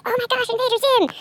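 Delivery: excited exclaim. Retold or imitated. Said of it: "So I said".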